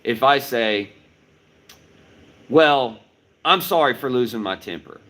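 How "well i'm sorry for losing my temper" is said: defensive apology. Shown as a demonstration. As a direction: apologize while defending yourself, a little frustrated. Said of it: "kinda sounds like I'm defending losing my temper".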